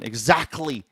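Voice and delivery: lightly imitated Leicester exclamation; Leicester accent. Host quoting Leicester friend, mock Leicester accent. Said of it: "was a guy from Leicester".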